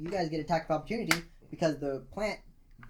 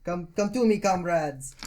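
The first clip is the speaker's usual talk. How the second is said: mock yell; 2 semitones higher, 5 dB louder, slower than usual. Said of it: "yells, uh".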